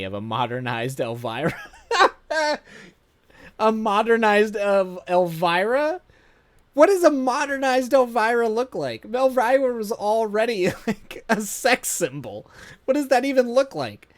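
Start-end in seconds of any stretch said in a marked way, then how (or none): 1.9-2.8 high squealing laugh; burst of laughter. Real, not acted. Laughing at the description. 3.6-14.1 incredulous. Real, not acted. Incredulous about the description.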